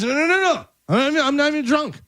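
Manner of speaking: high, frantic denial; panicked high pleading. Acted. Husband denying to wife.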